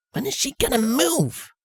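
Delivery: soft, high impatient thinking; quiet inner thought. Acted. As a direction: murmur it to yourself.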